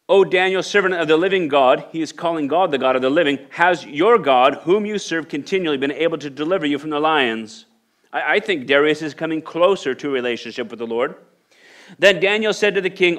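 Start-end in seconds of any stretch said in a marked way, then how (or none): 0.1-7.7 a touch of anguish, higher; mild anguished call. Acted. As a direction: plead toward the den, lightly anguished. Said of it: "He cried out in a tone of anguish".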